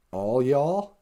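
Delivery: light Southern twang; Southern accent. Shown as a demonstration. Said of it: "the Southern accent".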